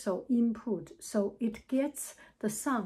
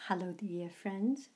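softer, distant greeting off mic; softer voiceover hello without the mic; 3 semitones lower, 5 dB quieter than usual. Shown as a demonstration. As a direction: greet from arm's length, gently. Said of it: "I will take away the microphone".

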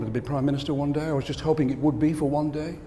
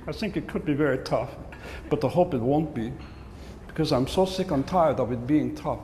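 whiny complaint; 3 dB quieter than usual. Retold or imitated. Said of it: "they don't talk like that".

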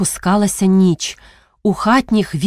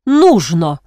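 short, loud, sharp answer; sharp retort; 2 semitones lower, 4 dB louder than usual. Acted. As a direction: cut him off sharply. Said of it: "гостро отказала дячиха". (різко обірвала чоловіка)

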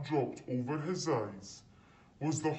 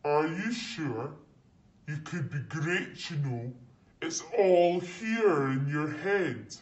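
the Sorting Hat tempting Harry toward Slytherin; Sorting Hat coaxing; 2 semitones higher, 4 dB louder than usual. Acted. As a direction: tempt him, then give way. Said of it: "said the small voice".

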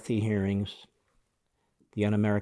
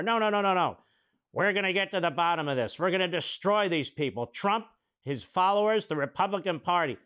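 higher-pitched parody of determination; mock vowing; 6 semitones higher than usual. Host parodies congressman vowing to destroy opponents, mocking. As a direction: make the threats a hammed-up send-up.

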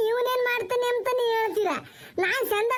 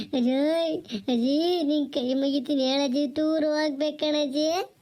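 desperate plea; 6 semitones lower than usual. Acted. Boy pleads with folded hands.

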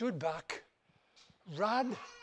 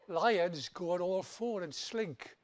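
slow explaining; slower than usual. Acted. Turtle explains slinking.

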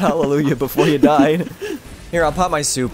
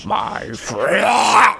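drawn-out, strained cry; slow pained impression, rising to a yell; mock pained voice. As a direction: imitate a character in pain, stretching the last word. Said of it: "He definitely sounds like he's in pain".

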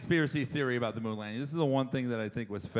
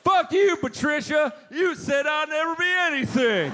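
much higher, loud gloating shout; triumphant yell; 12 semitones higher, 5 dB louder than usual. Retold or imitated. Astronaut yelling at Patricia from the moon, triumphant shout. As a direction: rub it in her face. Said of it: "you know what you'd say?".

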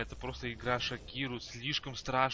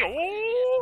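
high loud surprised shout; 9 dB louder than usual. Real, not acted. Surprised exclamation.

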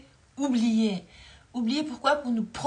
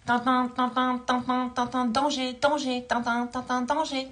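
alarm bell voice; 2 semitones higher, slower than usual. Retold or imitated. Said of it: "Donc, il dit".

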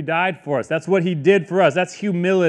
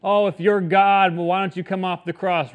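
mocking crowd; 3 semitones higher than usual. Crowd taunting Jesus on the cross, mocking. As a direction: jeer with a goading challenge. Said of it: "people are mocking you".

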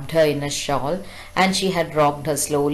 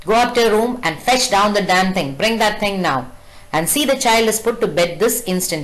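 louder angry father giving orders; 4 semitones higher, 3 dB louder than usual. Retold or imitated. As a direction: bark commands at the mother. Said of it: "gets very angry".

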